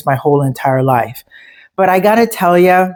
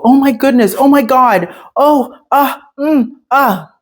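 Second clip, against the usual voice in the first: much higher, flustered stammer of an embarrassed man; flustered fumbling; 9 semitones higher than usual. Retold or imitated. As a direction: ham up the panicky babble as he backpedals. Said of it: "He proceeded to fumble and go".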